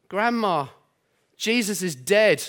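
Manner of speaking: put-on light Geordie little girl, sad; mild Geordie accent for a small girl; a hint of Geordie child voice, mildly sad. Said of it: "butcher the Geordie accent".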